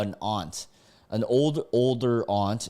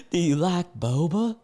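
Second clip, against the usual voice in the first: higher mimicry cracking up with laughter; laughing imitation; 7 semitones higher, 3 dB louder than usual. Reader repeating the passenger's absurd question, imitating her while laughing. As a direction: mimic the question through giggles.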